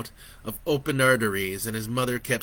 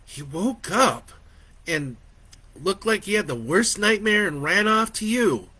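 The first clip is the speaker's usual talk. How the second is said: higher, mildly exasperated woman; defensive wife; 8 semitones higher, 4 dB louder than usual. A narrator's reading. Wife explaining to her husband, defensive. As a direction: explain yourself, a bit indignant.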